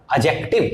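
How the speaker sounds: slow, careful adjective, D silent; adjective, spoken very slowly, D dropped; silent-D pronunciation. Shown as a demonstration. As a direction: adjective drawn out with no D sound. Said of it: "D is silent".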